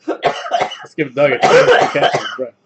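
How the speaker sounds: slow, loud and laughing; amused comment to a friend; laughing aside. Real, not acted. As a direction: tease through a laugh. Laughing host teases friend.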